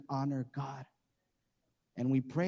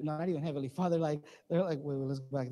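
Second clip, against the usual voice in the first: usual speaking voice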